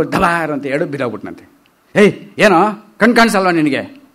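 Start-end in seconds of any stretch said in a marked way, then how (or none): 2.0-4.0 mock scolding. Man scolds Timma who fell.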